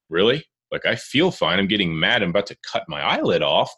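mild exasperation, starting a bit incredulous; retold frustration. Ranting at an uncontrollable eye twitch, mildly frustrated. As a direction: replay being fed up, half in fun. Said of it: "it was so frustrating".

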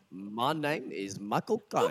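slow, badly faked Cockney film-star impression; Michael Caine. Shown as a demonstration. Host proudly demonstrating a disputed impression, slow mimicry. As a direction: draw it out in a dubious Cockney. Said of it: "I can do a great Michael Caine impression".

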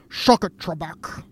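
hammed-up spoof Scotsman jeering at a quiz host; Sean Connery. Guest showing off a comedy-sketch impression, mock Sean Connery. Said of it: "the Will Ferrell, Sean Connery".

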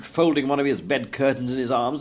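usual speaking voice

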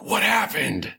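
lightly voiced high girl; high, light Adira voice; character voice. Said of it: "'Cause she sounds like that".

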